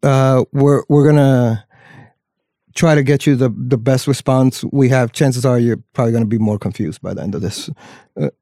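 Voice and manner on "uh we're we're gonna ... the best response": lightly voiced preacher cadence; a hint of a Southern preacher. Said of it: "my Southern preacher voice".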